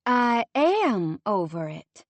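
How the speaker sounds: slow, lightly sweet reassurance; sugar-coat it, slowly; sweetly. A narrator's reading. Lindsay assuring Monty she is over it, slow and sweet. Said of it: "she assured him sweetly".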